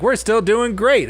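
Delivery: high, slow mock cheer; mock company boast. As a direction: drag it out high like a self-satisfied company. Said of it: "And they're like".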